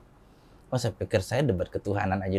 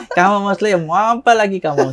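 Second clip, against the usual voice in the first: loud, higher-pitched retold retort; mock exasperated challenge; 8 semitones higher, 9 dB louder than usual. Convert challenging Muslim brother in a retold spat, mock exasperated. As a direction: confront the sibling, acting out an old quarrel.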